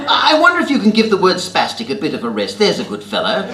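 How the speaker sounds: put-on high, loud, plummy British upper-class accent like an old lord; posh British accent of an eighty-year-old lord. Telling off the swearing bloke on the bus in an upper-class British accent. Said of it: "the upper-class British accent I've adopted".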